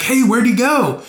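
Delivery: put-on high, bright valley-girl voice; high girly voice. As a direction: squeal it like a ditzy college girl. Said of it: "They're just like".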